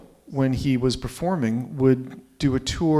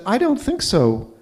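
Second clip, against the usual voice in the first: grandmother's retort; 6 semitones higher, 5 dB louder, slower than usual. Retold or imitated. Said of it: "And she said".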